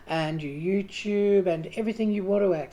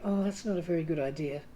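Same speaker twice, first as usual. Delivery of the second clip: inner critic muttering; 3 semitones lower, 7 dB quieter than usual. Retold or imitated. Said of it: "That's the voice that goes".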